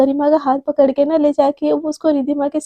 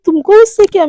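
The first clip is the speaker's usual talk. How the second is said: higher, louder snap back; irritated retort; 4 semitones higher, 5 dB louder than usual. A narrator's reading. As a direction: brush off the angry questioner sharply. Snaps back in quarrel. (चिढ़कर जवाब देते हुए)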